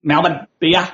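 "Melbourne, beer" with no R, like "Melbun, bee-ah"; dropped R. Shown as a demonstration. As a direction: leave every R out of "Melbourne, beer", Australian style. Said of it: "We don't bother with the R".

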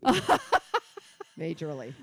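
giggle fit. Real, not acted. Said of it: "are you hitting a wall".

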